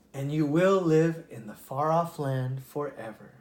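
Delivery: lively read-aloud storytelling voice; storybook narrator giving each animal a voice; story narration. A narrator's reading. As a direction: read it like a bedtime fable. Reads a fable aloud.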